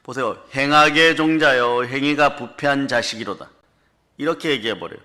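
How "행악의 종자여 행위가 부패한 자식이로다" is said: loud rebuke, easing toward the end; preacher voicing a stern telling-off; scolding. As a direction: scold them, hitting the opening hard. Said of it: "막 야단치는 거예요".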